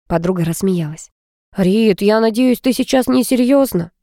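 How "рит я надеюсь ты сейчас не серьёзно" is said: displeased. A narrator's reading. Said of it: "недовольно проговорил Ромка".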